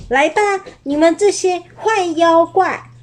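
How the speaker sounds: 稍高稍响地挑战; 鼓起勇气喊话; 壮胆大叫. Acted. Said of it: "壮着胆子大叫". (阿宝在城堡里向妖怪挑战，壮着胆子)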